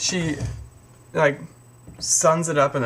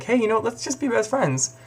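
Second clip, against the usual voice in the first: eager Ron; 8 semitones higher than usual. Retold or imitated.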